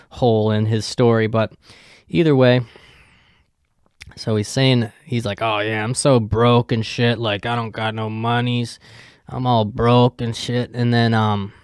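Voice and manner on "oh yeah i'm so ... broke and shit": put-on a light, half-hearted Mexican accent; mock Mexican accent, barely put on. Coworker Tim griping about being broke, light Mexican accent. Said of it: "why I gave him a Mexican accent there".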